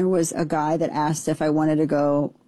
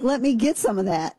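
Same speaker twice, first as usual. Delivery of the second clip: a higher, keen let me get some of that; mock a guy jumping at the chance; lightly hammed-up eagerness; eager mock voice; 6 semitones higher than usual. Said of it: "He was like".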